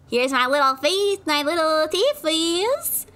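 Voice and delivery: cutesy. Acted. Showing teeth cutely.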